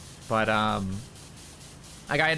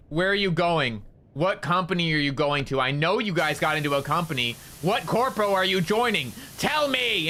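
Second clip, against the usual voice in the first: Bao; 3 semitones higher than usual. Retold or imitated. Friend grills them live about their new company, yelling. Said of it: "she's, like, yelling this at us".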